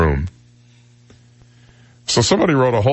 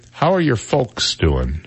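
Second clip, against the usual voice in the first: lightly voiced old-timer; 3 semitones higher, slower than usual. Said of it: "remember when you'd say".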